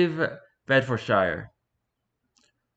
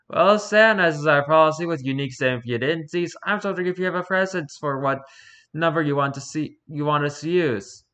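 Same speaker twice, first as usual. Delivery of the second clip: lightly voiced higher, quick interviewer; official interviewer; 5 semitones higher than usual. Interviewer asking Satan's number preference, perky and officious. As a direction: rattle off policy in a perky voice.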